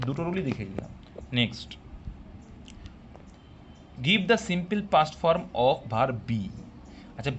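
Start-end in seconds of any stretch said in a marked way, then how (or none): 4.1-6.4 very slow, word by word; slow dictation read. Shown as a demonstration. Teacher dictating the question to students, slow and deliberate. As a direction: read the question out slowly for the class.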